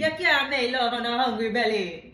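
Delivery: patois at an everyday pitch; attempted Jamaican accent with an odd lilt; patois with an undertone. Shown as a demonstration. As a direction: say it in a lilting Jamaican-Irish accent. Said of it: "when you do your accent, you add this".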